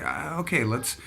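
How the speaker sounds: mildly excited retelling of an eager dad; playful imitation of an excited helper. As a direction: lightly imitate dad brimming with ideas, pitch jumping up early. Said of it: "He just would get excited".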